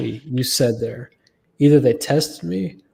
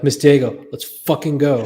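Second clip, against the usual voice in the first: acted urgent plea, louder; insistent urging; 6 dB louder than usual. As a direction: urge her along with rising impatience. Retold urging, second time, insistent.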